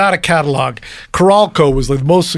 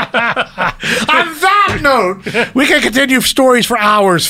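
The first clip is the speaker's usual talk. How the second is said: laughing while talking; 6 semitones higher, much slower than usual. Real, not acted. Host laughing through wrap-up.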